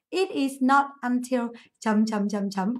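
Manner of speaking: slow phrase with blanks read out; slow dictation. Shown as a demonstration. Teacher prompts students to complete structure, slow dictation. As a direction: dictate the pattern slowly for note-taking.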